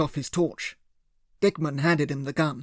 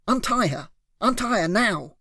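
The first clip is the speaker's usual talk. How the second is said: higher, sharp "Untie" barked out; raised demand; 6 semitones higher than usual. A narrator's reading. Hero bellows at the kidnapper, "Untie" raised and sharp. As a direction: hit "Untie" hard and high.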